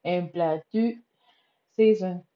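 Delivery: mock-grand sarcastic announcement. Real, not acted. Podcaster admitting her weight loss has stalled, sarcastic. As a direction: say it with pointed sarcasm. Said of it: "lo voy a decir así bien sarcásticamente".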